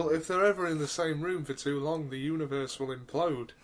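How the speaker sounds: low, soft doom warning; low ominous. Acted. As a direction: say it like a prophecy of doom. Ominous joke delivered quietly.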